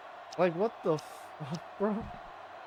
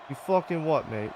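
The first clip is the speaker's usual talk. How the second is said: a light put-on British accent; half-hearted British accent; mock British accent; 3 semitones higher than usual. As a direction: snap back in jokey British slang. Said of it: "You turn me British".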